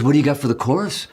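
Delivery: a hint of mock Liverpudlian in the question; a singer. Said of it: "I have to do the accent".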